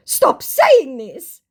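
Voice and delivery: whiny scammer begging her to stop; mock distressed scammer. Distressed scammer pleading with the vlogger, slow mock voice. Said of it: "increasingly distressed my scammer was getting".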